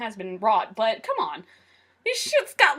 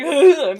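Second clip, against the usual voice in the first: loud mock "ugh"; imitated dying groan; 2 semitones higher, 10 dB louder than usual. Acting out being shot by Megatron, loud mock groan. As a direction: groan loudly as if just shot.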